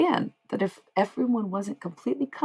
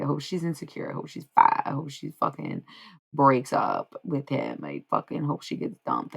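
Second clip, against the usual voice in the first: spiteful mock wishing; 2 semitones lower than usual. Voicing people wishing ill on her.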